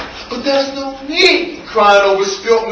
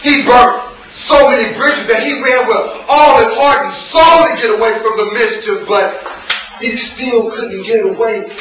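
dramatic, rhythmic poetry delivery; spoken-word poem. Acted. Poet telling of street life and addiction, spoken-word performance. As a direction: punch the key words, let phrases hang.

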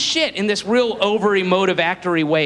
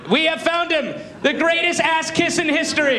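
alien announcement; 8 semitones higher than usual. Pretend. Aliens addressing the future.

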